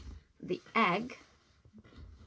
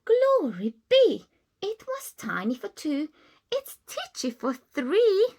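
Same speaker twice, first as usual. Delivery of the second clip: put-on crying old lady; 9 semitones higher, 5 dB louder than usual. Old lady crying out over her crowded house, distressed. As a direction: wail about the crowded house. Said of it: "The little old lady cried".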